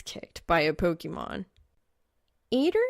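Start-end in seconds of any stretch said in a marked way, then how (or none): 2.5-2.8 high, loud calling out. Acted. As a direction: call his name across the room. Someone calls out to him.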